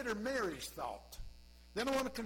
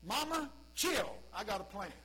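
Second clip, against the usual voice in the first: Jesus calm; 3 dB louder than usual. Pretend. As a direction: settle his mother down. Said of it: "Jesus' thought".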